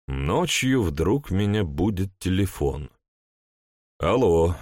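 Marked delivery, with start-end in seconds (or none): 4.0-4.5 hoarse, sleepy phone answer. Acted. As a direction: answer hoarsely, woken at night. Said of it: "проговорил я хрипло".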